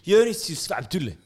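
Jørnis Yusuf Abdulle said out carefully; full name, pronounced with care. Shown as a demonstration. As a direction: spell out the full name by ear. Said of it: "Hvordan er det man uttaler navnet ditt?".

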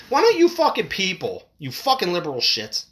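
real upset. Real, not acted. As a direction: erupt in real anger at the liberals. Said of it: "I'm getting a little upset about this".

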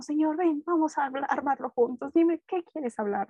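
mock sweet lovestruck voice; high sugary plea to the Lord; romantic. Young woman sweetly coaxing the Lord, hammed-up romantic. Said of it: "toda romántica, toda cursi".

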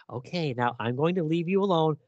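hushed conspiratorial whisper, voice dropped right down. Retold or imitated. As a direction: whisper it like a nosy landlady slipping away. Frau Lang sneaking off, whispered.

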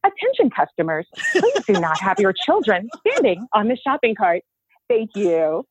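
lightly voiced store PA announcement; supermarket announcement. Shown as a demonstration. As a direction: read it like a shop PA. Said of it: "they had things that they did live".

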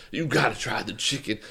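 lightly put-on Midwestern accent; a hint of Midwestern accent; mock Midwestern. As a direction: imitate a Midwesterner urging food. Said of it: "making fun of Midwesterners".

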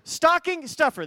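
"Stocking stuffer" said high, loud and slowly, word by word; careful articulation. Real, not acted. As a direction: get through the tongue twister "Stocking stuffer" slowly and deliberately. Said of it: "It's a tongue twister".

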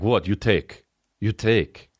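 lightly put-on Russian accent, blunt; blunt Russian guy, lightly accented. A Russian guy explains sex to an Italian, lightly Russian accent. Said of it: "He's just like".

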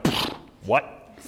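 breathy scoff of disbelief; stunned disbelief. Retold or imitated. Student told to call professor Bill, breathy disbelief. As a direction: let the surprise puff out. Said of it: "And you're like".

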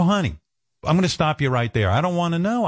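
retold weary refusal. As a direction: cut her off before she starts. Stopping wife from telling him.

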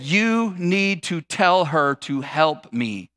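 slow, measured bossy order; bossy demand. Acted. Martha ordering Jesus to intervene, bossy demand. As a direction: spell out the order word by word. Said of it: "She's trying to boss Jesus around".

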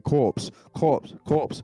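mock scream. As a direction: imitate a fan screaming a name. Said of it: "Tommy Innit was screaming".

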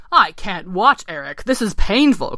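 mildly pained frog; lively frog dismay, rising on the complaint; croaking frog. Acted. Ken pained at watching his friend dive in, croaking. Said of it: "croaked Ken".

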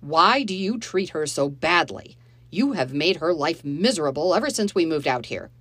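loud, yelling stepfather. Acted. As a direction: yell at them in a rage. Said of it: "He was yelling now".

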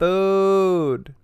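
high, loud hungry cry; cat voice. Retold or imitated. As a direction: yowl it like a starving cat. Cat's cry translated.

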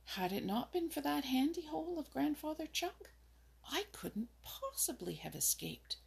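lightly voiced rabbit, the last words hushed to a whisper; Peter Rabbit. A narrator's reading. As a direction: rabbit telling his escape, dropping to a whisper. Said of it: "concluded Peter".

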